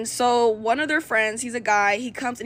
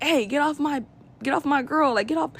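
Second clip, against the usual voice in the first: mad yell; 4 semitones higher than usual. Retold or imitated. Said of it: "really mad".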